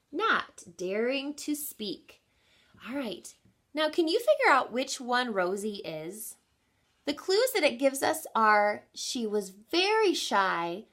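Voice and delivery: lilting storybook read-aloud; gentle picture-book narration; reading to children. Acted. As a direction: read the rhyme to a class.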